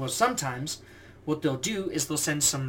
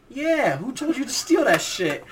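imitating drill instructor; 8 semitones higher, 5 dB louder than usual. Second drill instructor pops out.

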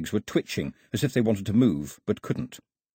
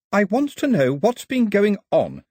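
demanding; 11 semitones higher, 6 dB louder than usual. A narrator's reading. Daphne demanding answers.

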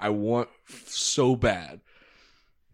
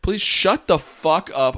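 loud, slow, higher mock yell; hammed-up mock anger; mock snap; 7 semitones higher, 7 dB louder, slower than usual. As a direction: bark it in playful fake rage. Mock-angry jab at co-host.

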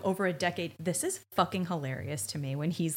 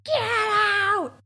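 much higher, louder screeching; mock scream; 13 semitones higher, 7 dB louder, much slower than usual. Wife screaming at the detectives to leave, high screech. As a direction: screech them out the door. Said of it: "starts screaming".

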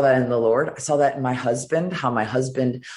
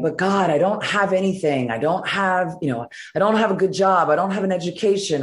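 higher, urgent protest of having nothing; pleading with God; 6 semitones higher than usual. Retold or imitated. Woman pleading with God during the altar call, higher and desperate. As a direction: beg God, voice pitched up in distress.

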